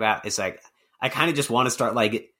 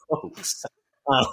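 put-on New Jersey accent; 3 semitones higher than usual. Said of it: "So what would that look like?".

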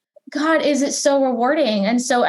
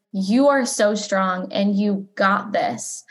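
gentle reassurance; 3 semitones lower, slower than usual. Retold or imitated. Stranger reassures her a week later, slow and gentle. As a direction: say it slowly to lift her up.

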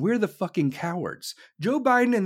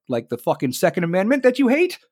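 mock press outcry; 6 semitones higher than usual. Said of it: "everybody in the press was like".

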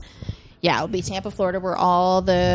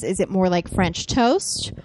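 slow demo question; 3 semitones lower, slower than usual. Shown as a demonstration. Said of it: "the first question is".

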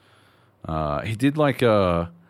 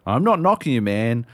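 mock rant at Justin; 4 semitones higher, 3 dB louder than usual. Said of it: "I'm like".

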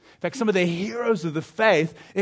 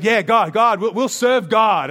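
crowd response; 3 semitones higher, 7 dB louder than usual. Acted.

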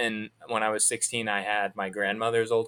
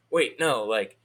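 stuttering cop; 4 semitones higher, 3 dB louder than usual. Retold or imitated. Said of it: "I remember them stuttering".

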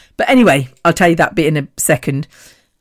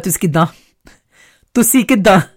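street Punjabi; 2 semitones higher than usual. Retold or imitated. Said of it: "in my world".

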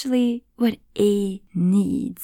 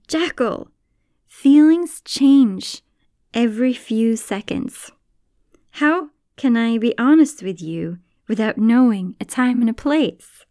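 giraffe explaining; 4 semitones higher, 5 dB louder than usual. Acted. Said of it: "Giraffe says".

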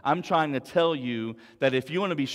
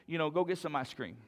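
coaxing voice; 6 dB quieter than usual. Acted. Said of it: "Other things".

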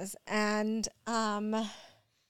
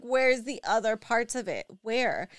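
louder, pressing questions; retold frantic demand; 6 dB louder than usual. Mom retelling demanding where the rest of the pill went, louder urgency. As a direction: demand an answer in a hurry. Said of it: "I was, like, freaking out".

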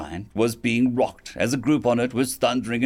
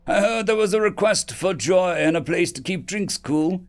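calling out; 7 semitones higher than usual. Acted. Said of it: "he called".

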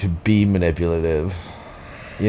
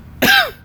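real cough. Real, not acted. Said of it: "That was kind of real".

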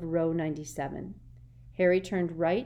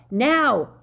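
loud sharp yell; 7 semitones higher, 11 dB louder than usual. A narrator's reading. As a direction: shout the signal. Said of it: "yelled Harry".

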